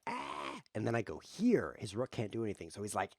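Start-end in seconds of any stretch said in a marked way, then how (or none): 0.1-0.6 a low, mock "Ah!" startled gasp; mock startled cry. Opponent caught by the check, a low mock gasp.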